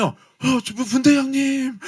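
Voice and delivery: feeble recruit voice. Retold or imitated. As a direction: gasp it out like you're about to drop.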